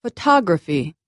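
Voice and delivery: "Photography" with the second vowel stronger and longer; "Photography", second syllable stressed, the others low and quick. Shown as a demonstration. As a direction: stretch the "tog" in "Photography". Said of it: "I said it louder and longer".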